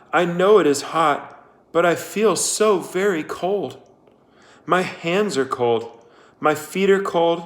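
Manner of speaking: lightly voiced Kate. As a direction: voice her plea to Sam, dying away at the end. Kate talking to dead Sam.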